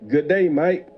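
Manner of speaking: a light mock Australian accent on the greeting; hint of an Aussie twang reading the email. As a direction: greet like a cheery Aussie, only half committed. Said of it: "that's my accent".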